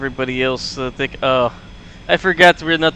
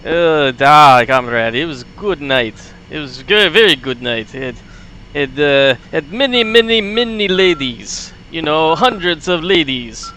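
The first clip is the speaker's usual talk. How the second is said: put-on boastful light Russian accent, louder; Soviet accent; 3 dB louder than usual. Grumpnik boasting to comrade about vodka night, Russian accent. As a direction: brag like a Soviet pilot. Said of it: "Soviet sound voice".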